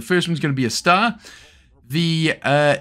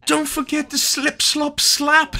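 much higher, sing-song slogan; mock jingle; 13 semitones higher, slower than usual. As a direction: chirp the sun-safety jingle. Singing the sun-safety jingle.

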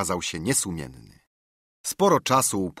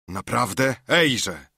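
a bit cheerful; 3 semitones higher, 3 dB louder, slower than usual. Acted. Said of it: "zawołał Dick jakby radośnie".

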